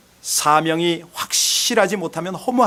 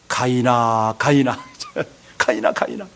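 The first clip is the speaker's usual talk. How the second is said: calling out to Cain; 9 semitones lower than usual. Acted. God calling Cain by name.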